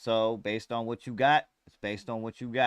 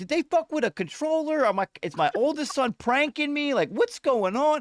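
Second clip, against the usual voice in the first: mock panicked, frantic, freaked-out yelling, very high; 3 dB louder than usual. Recounting yelling at your kids when the PlayStation turned off, retelling a yell. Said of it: "I'm yelling at my kids like".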